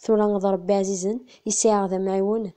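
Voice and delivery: measured, restrained verse reading; poem recitation. Acted. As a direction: recite in short even phrases with pauses. (taɣuri n usefru s leɛqel)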